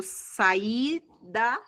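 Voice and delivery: "saída" drawn out, with a gap before "da"; split into syllables. Shown as a demonstration. Teacher showing the class where saída splits, slow syllable separation. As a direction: say "saída" slowly, broken before the last syllable. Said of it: "faço a separação silábica de saída".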